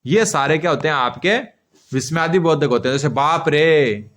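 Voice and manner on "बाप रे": slow exclamation demo. Shown as a demonstration. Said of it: "लेकिन शब्दों से ऐसा".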